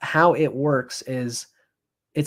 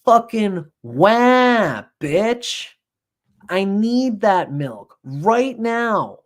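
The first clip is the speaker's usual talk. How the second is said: high, loud wailing infant; demanding baby; 7 semitones higher, 4 dB louder, much slower than usual. Retold or imitated. Hungry baby screaming at its mother for milk, loud high wail. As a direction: bawl it like a starving baby who wants milk now. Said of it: "A healthy baby says".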